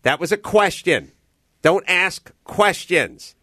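high-pitched mock yell of a scolding coach; imitated yell. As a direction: call out the correction like an improv teacher, without full volume. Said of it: "And she'll yell".

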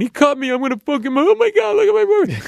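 high, loud mock wail; hammed-up crying girlfriend. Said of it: "The girlfriend's crying".

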